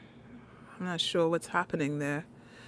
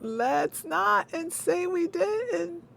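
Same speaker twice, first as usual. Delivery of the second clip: slow high sing-song with "not" stretched; slow higher teasing "not"; 10 semitones higher, much slower than usual. Shown as a demonstration. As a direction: drawl it out slow and high like a tease. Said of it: "repeated line".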